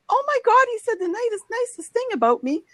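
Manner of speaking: high, thrilled gush; excited squeal. Retold or imitated. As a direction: gush like you just saw it. Retold delight at a tweet.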